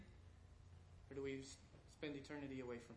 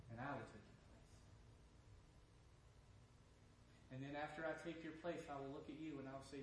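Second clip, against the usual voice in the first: low, softened voice of a loving God; tender reassurance; 3 semitones lower, 7 dB quieter than usual. Acted. God offers sinners a free gift, tenderly reassuring. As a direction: offer grace gently, letting the pitch sink.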